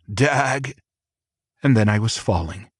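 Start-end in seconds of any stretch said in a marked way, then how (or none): 0.1-0.8 a short grunted Dag!. A narrator's reading. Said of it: "Then my voice, a grunt".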